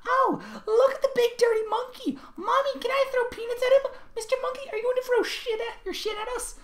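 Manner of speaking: mock the tourists in a squeaky Philly whine; high-pitched mock Philly voice. A narrator's reading. The speaker mocks gawkers who treat him like a monkey, high mock voice. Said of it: "in a high-pitched mock Philly voice".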